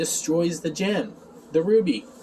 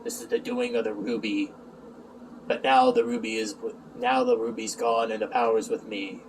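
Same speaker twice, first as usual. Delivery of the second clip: Emo; 6 semitones lower, 5 dB quieter than usual. Retold or imitated. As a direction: answer as a grave dream lord, hushed and deep. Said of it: "Emo's like".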